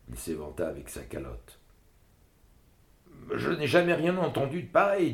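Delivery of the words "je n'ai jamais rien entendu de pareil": father voiced higher and louder; the rabbi finally admits amazement; rabbi at last. A narrator's reading. Rabbi father admits he never heard such a thing. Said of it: "dit-il enfin".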